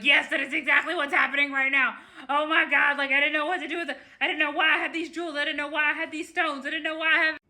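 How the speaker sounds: giggling, high and fast; laughing through the admission, words tumbling out; retold client cracking up, a half-laughed confession. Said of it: "she's, like, cracking up".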